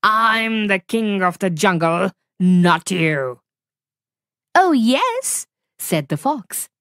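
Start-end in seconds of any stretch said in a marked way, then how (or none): 0.0-3.4 big cat offended, putting the fox down; indignant tiger. Acted. Tiger insists on his title. 4.5-5.5 high, slow, sly fox voice; calm little fox staying cool; clever fox. Acted. Fox replies confidently.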